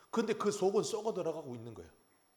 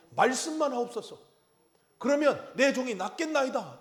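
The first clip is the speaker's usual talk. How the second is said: fervent centurion plea; 5 semitones higher, 3 dB louder than usual. Retold or imitated. Centurion pleading with Jesus.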